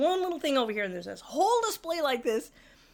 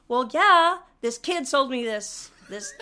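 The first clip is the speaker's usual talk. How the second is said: loud, slow, indignant complaint with a laugh breaking through; 4 semitones higher, 5 dB louder, slower than usual. Retold or imitated. An angry customer complaining to store staff, indignant. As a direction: spell out the grievance, fed up and amused. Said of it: "And I said".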